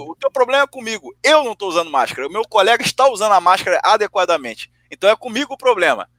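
high-pitched indignant confrontation; retold anger. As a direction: re-enact standing up for a friend. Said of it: "aí eu fiquei puto".

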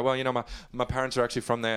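quick, lightly put-on London accent; rattled-off mock English accent. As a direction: imitate an affected London accent. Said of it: "started talking like this".

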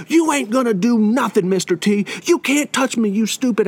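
mock defiant taunt, not shouted; imitated defiant cursing. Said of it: "he's cursing again".

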